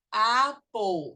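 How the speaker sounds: American pronunciation of "apple", long open first vowel; American English. Shown as a demonstration. Teacher models the correct word for parents, American English. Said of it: "esse é inglês americano".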